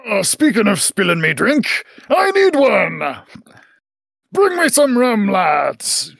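captain yelling to his crew for drinks; pirate captain calling for rum. Acted.

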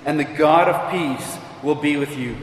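measured, solemn reading of a Bible passage; scripture reading. Acted. Preacher reading Philippians to the congregation, solemn and measured.

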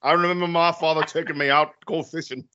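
a hint of a solemn Civil War soldier, reminiscing; mock war movie monologue. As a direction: parody a dramatic film monologue, lightly voiced. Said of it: "you're doing some monologuing".

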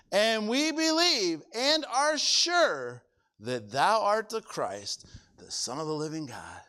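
slow reading that fades to a whisper at the end; fervent scripture reading. Acted. Preacher reading Peter's answer, slow and fading to a whisper. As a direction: build the confession, then breathe it out. Reads Peter's confession in the verse.

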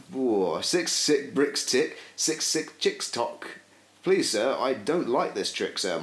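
reading a Dr Seuss book aloud for listeners; sing-song children's book read; rhythmic storybook recital; tongue-twister reading. Acted. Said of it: "go through relatively fast".

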